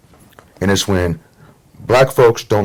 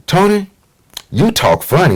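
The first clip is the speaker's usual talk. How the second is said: teasing classmate; 10 semitones higher than usual. Retold or imitated. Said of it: "He was like".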